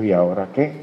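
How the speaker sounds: low, even question, lightly voiced; understated probing pastor. Pastor pressing the new lawyer, understated probing question.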